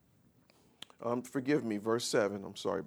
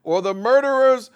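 full-force preaching; 5 semitones higher, 7 dB louder than usual. Acted. Preacher calling out the lawless to the congregation, loud and high. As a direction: hammer each name from the pulpit.

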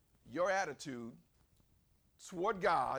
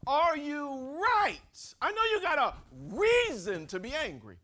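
loud, high, drawn-out confronting question; forceful challenge; 9 semitones higher, 9 dB louder than usual. Acted. God questioning Jonah's anger, forceful challenge. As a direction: hammer the question home like a preacher.

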